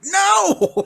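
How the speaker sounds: high, loud mock refusal; sharp no. Dad refusing his son's question mid-movie, sharp and loud. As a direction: shut the question down.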